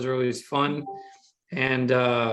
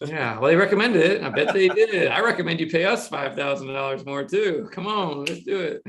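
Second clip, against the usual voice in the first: higher, sarcastic goading; mock sales pitch; 4 semitones higher, 4 dB louder than usual. Agency man spoofing budget recommendations, sarcastically coaxing. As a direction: egg them on with joking sarcasm.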